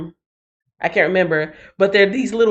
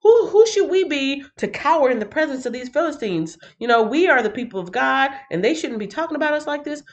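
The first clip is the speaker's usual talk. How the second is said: mock-indignant hero, pitch jumping higher; David scoffing at the Philistines; David's indignant outburst; 6 semitones higher than usual. Young David rebukes the cowering Israelites, mock-indignant. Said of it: "he's like".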